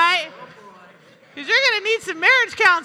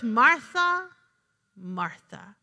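tender rebuke; 5 semitones lower, much slower than usual. Retold or imitated. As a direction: gently call her back, letting the second "Martha" fade. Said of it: "he goes".

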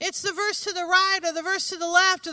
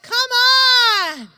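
loud, high exasperated shout; impatient cry; 7 semitones higher, 9 dB louder than usual. Retold or imitated. Desperate father held up by the lady, yelling impatiently. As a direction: howl it like a frantic father. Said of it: "You'd be like".

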